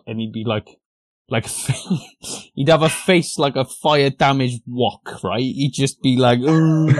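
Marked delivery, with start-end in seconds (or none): 6.4-6.9 angry grunt. Retold or imitated. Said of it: "the angriest bloke".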